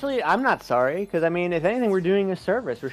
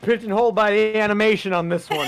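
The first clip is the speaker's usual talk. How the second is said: dub actor voice; 6 semitones higher, 5 dB louder than usual. Retold or imitated. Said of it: "And someone said".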